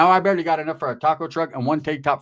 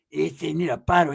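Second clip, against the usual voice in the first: cholo voice. Retold or imitated. Cousin Pepe voiced.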